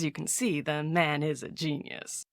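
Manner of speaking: hushed confiding whisper. Acted. Aside to the visitor, hushed and confiding whisper. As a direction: let it drop to a secretive whisper.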